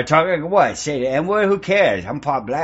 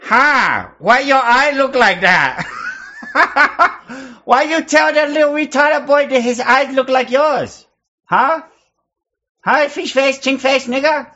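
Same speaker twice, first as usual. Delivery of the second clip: higher, laughing taunts; mocking laughter; 8 semitones higher than usual. Real, not acted. Streamer taunting a stranger on video chat, high laughing mockery. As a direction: needle him through the giggles.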